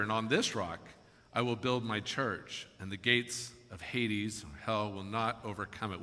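measured, deliberate Bible reading; solemn public reading; scripture reading. Acted. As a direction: read it out to a congregation, pausing between phrases. Reads scripture aloud to congregation.

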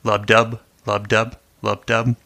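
lightly rhythmic lub-dub demo; heartbeat rhythm. Shown as a demonstration. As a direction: tap out the heartbeat with the voice. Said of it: "related to the human heartbeat".

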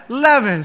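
leaven with short e, LEV-en; leaven rhymes with heaven. Shown as a demonstration. Pastor repeating the corrected word leaven, short e. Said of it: "it rhymes with heaven".

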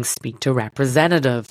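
attempted American accent, slowly; slow, careful try at an American accent. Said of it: "trying to do an American accent".

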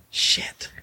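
breathy, unvoiced muttered curse; retold dismay. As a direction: swear under your breath, reliving the worry. Retold dismayed reaction to lawsuit warning.

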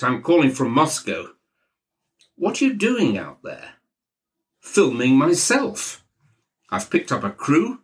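lightly voiced self-important boss; Maxwell. Maxwell boasting from Moscow to the sleepy narrator, lightly voiced and pleased with himself. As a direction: breeze through your grand plans.

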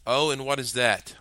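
defiantly. Acted. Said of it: "I asked defiantly".

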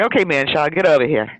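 playful bossy call; teasing parental order; mock summons. Mock summons to grown son.

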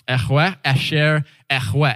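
"Yahweh Asher Yahweh" as "ekh-weh a-sher ekh-weh", h rasped in the throat; breathy, spitty Hebrew. Shown as a demonstration. Teaching a little Hebrew, "Yahweh Asher Yahweh" breathy and throaty. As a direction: push breath and spit through "Yahweh Asher Yahweh". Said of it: "more breathy and spitty than I can even do it".

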